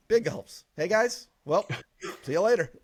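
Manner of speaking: cheerful quoted goodbye; quoting the movie line. Retold or imitated. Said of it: "it's obviously gonna be".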